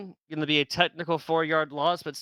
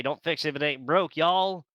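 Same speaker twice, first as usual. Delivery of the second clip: put-on New Jersey accent. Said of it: "That is the worst New Jersey accent".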